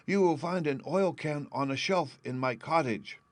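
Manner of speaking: high, plaintive tin woodsman voice; sad Tin Man. A narrator's reading. Rusted Tin Man telling Dorothy of his groaning, high and sad. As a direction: sound like a lonely man of tin stuck for a year.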